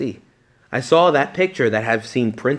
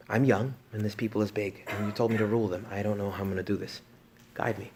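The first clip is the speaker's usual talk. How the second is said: humble prayer; 2 semitones lower, 8 dB quieter than usual. Retold or imitated. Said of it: "What does Solomon say?".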